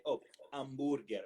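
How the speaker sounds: put-on hamburger in a light Italian accent; mock Italian relatives. Relatives in Italy recognize hamburger, lightly accented. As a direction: imitate relatives finally getting it. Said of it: "And they".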